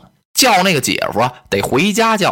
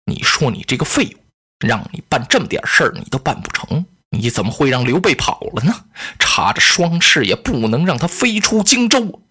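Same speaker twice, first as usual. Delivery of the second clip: lower, a hint of a contemptuous lady; scolding elder sister; 3 semitones lower than usual. Lady Cai scolds Cai Mao for letting Liu Bei escape, lower and scornful. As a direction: scold him like a useless brother.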